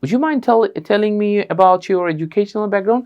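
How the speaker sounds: Would you mind telling me, drawn out and even; slow polite model. Shown as a demonstration. Teacher drilling the would you mind question. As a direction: say the full request slowly. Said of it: "আপনি তাহলে বলেন".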